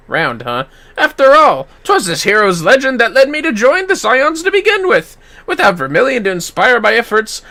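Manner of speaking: earnest and proud; lightly voiced bold knight; begging to fight the first round alone; eager young warrior.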